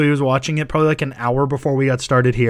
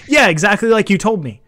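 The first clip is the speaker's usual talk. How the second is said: a touch of the scene's voice, lightly raised; quoting the line; 5 semitones higher, 4 dB louder than usual. Retold or imitated. Friend quotes the movie line at mom's laugh, lightly acted. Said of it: "it's like".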